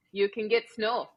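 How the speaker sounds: Wisconsin accent, long rounded o in snow. Real, not acted. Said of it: "as I say that with my Wisconsin accent".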